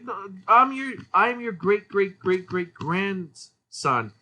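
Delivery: a hint of a cartoon boy stretching out great grandson; descendant kid voice. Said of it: "It's like".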